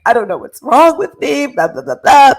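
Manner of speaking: mock panic, babbling to the nurse; frantic complaint. Patient to the nurse, a loud mock-frantic babble. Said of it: "I'm like".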